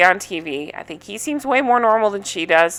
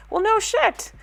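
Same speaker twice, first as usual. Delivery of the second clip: sarcastic retort; 10 semitones higher than usual. Real, not acted. Sarcastic comeback to quote.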